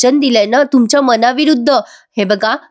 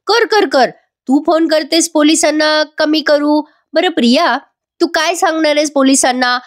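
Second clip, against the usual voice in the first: higher mocking challenge; taunting dare; 5 semitones higher than usual. Wife taunts rival to call the police, mocking. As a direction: dare her to call, pitched up.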